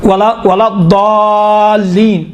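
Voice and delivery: slow ولا ضالین with a long-held ضا; recited ض demonstration. Shown as a demonstration. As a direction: recite ولا ضالین, stretching the vowel after ض. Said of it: "دال ہے".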